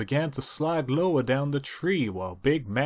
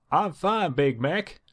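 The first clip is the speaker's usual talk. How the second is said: higher, mildly breathless urging; high urging sister; 8 semitones higher than usual. Acted. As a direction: insist you're fine, high. Applejack urges him on.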